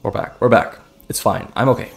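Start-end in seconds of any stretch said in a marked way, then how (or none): 0.0-0.4 barely voiced, breathy and faint; voice still failing. Real, not acted. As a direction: croak it out as the voice fails. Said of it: "I just lost my voice completely".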